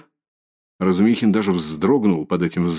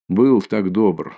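slow mocking echo; much slower than usual. Son mocks mother's words.

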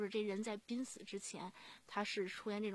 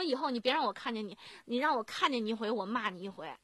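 half-strength scolding, as retold; retold angry threat; 4 dB louder than usual. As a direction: imitate a cursing patient, a bit louder. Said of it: "瞪着眼就开始骂我". (模仿病人骂骂咧咧地威胁)

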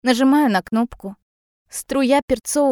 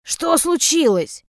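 lightly voiced mother, higher and slow; alarmed mother; 6 semitones higher, slower than usual. A narrator's reading. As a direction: ask in drawn-out alarm. Drunk mother runs in alarmed.

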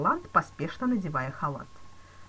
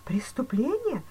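higher, startled echo of the word; cried out; 8 semitones higher, 4 dB louder, slower than usual. A narrator's reading. Banker echoing the police chief's word, alarmed cry. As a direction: throw the word back in alarm. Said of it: "вскричал банкир".

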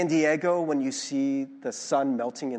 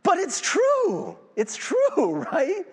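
laughing insistence; 11 semitones higher, much slower than usual. Real, not acted. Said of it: "half-laughing insistence".

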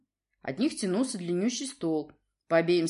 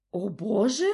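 irritated repeat; 3 semitones higher, 4 dB louder, slower than usual. A narrator's reading. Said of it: "раздражённо переспросил Урий".

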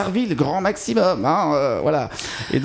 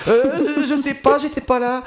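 schoolchild voice; 9 semitones higher, slower than usual. Pretend. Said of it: "devant ma prof de français en interrogation en C M deux".

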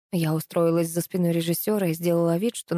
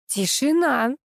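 yelling; 7 semitones higher, slower than usual. A narrator's reading. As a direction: yell to stop the fight. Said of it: "заорала Рита".

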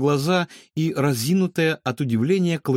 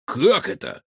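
astonished; 5 semitones higher, 3 dB louder than usual. Acted. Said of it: "изумлённо вытаращил глаза Рикошет".

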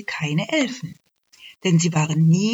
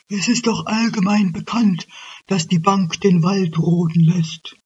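louder, matter-of-fact moose; know-it-all moose; 3 semitones higher, 5 dB louder than usual. Acted. Moose telling the elf about the bank, loud know-it-all. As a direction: lay it out as obvious. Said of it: "fragte der Elch".

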